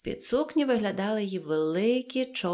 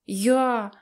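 pleased with oneself, higher and louder; smug little announcement; self-satisfied; 4 semitones higher, 6 dB louder than usual. A narrator's reading. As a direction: answer with proud satisfaction. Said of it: "вдоволено відповіла Пепі".

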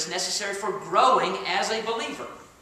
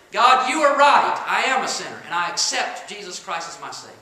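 earnest surrender; 2 semitones higher, 9 dB louder than usual. Retold or imitated. Voicing surrender prayer.

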